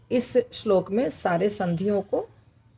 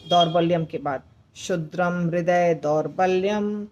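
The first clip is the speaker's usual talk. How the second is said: verse line recited evenly, each phrase set apart; measured recitation. Shown as a demonstration. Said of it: "अब मैं बोलकर सुनाती हूँ". (श्लोक का नपा-तुला पाठ)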